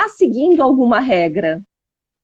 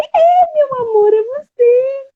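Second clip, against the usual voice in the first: much higher, tender and touched; tender, moved; 14 semitones higher, slower than usual. Retold or imitated. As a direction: answer the little girl with loving emotion. Mother retells tender reply to daughter. (voz bem aguda e emocionada, carinhosa com a filha)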